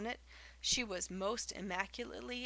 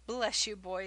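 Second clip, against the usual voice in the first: good-humored; 6 dB louder than usual. A narrator's reading. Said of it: "said Peg good-humoredly".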